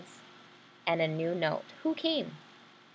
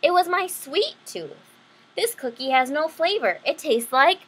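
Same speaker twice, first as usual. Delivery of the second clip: lively picture-book read-aloud; bright storybook telling; story narration; 3 semitones higher than usual. A narrator's reading. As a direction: read it to the kids with voices.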